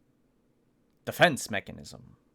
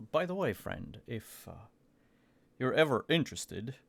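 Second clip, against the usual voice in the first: discreet Aiden. Acted. Aiden's discreet offer to Atson.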